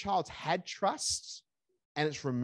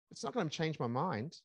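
steady and reassuring, never raised; calm grandparent. Shown as a demonstration. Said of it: "I can do this with my two".

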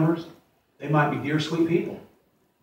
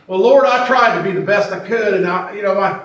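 pleading excuse to the Lord; 4 semitones higher, 4 dB louder than usual. Retold or imitated. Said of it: "they're gonna say".

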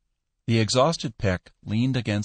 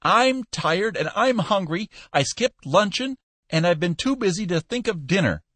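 weary ranting Peck; 10 semitones higher than usual. Acted. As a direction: grumble it, tired and hungry. Peck's rant continues.

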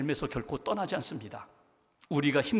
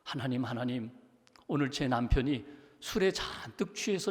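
wife's prayer. Retold or imitated. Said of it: "남편의 손을 붙잡고 기도하는".

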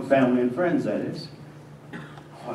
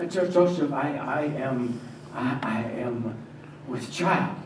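trembling confession; 6 dB quieter than usual. Acted. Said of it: "Her lips trembled".

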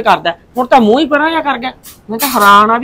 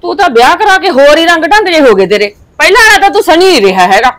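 higher, louder complaining aunt; scolding; 5 semitones higher, 3 dB louder than usual. Acted. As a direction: tell him off for changing. Aunt scolds the changed nephew. (ਉੱਚੀ ਆਵਾਜ਼ ਵਿੱਚ ਝਿੜਕਣਾ)

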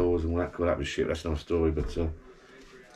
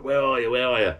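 calling out; 6 semitones higher, 3 dB louder than usual. Retold or imitated. Waving a baseball bat at burglars.

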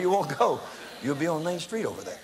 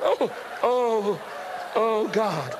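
dismayed; 5 semitones higher, 4 dB louder, much slower than usual. Retold or imitated. Dismay at the barking.

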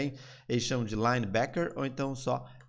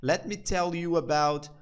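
very slow, clear example sentence; slow demo; much slower than usual. Shown as a demonstration. Teacher giving an example to students, very slow. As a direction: lay out each word. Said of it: "Olha só".

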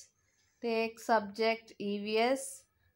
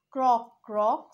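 loud croak; 6 dB louder than usual. Acted. Animal sounds in song.

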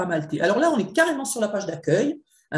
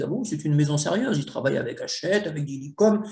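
lightly voiced gullible author, lower; imitating an impressed newbie writer; mildly mocking authors who believe the logos; naive author; 3 semitones lower than usual. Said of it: "tous les auteurs se disent".

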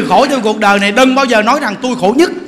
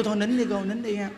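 much softer, gentle coaxing to stop crying; soothing hush; 2 semitones lower, 5 dB quieter than usual. Retold or imitated. Monk calming a weeping woman in the temple, soft soothing hush. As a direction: hush her tears tenderly, barely above a murmur.

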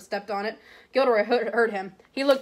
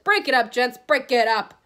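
louder, firm command; calling out; 2 semitones higher, 6 dB louder than usual. Acted. Big man orders brawlers apart, a louder firm call. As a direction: bellow to break up the fight. Breaking up a fight.

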